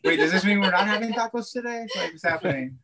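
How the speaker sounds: mock whiny husband. Husband mocks his own laziness.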